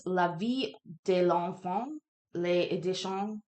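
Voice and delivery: tentative French accent while reading; faked French accent. Real, not acted. Streamer reading out a French publisher's reference, faked French accent. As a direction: sound out the French title in a put-on accent. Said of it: "French accent".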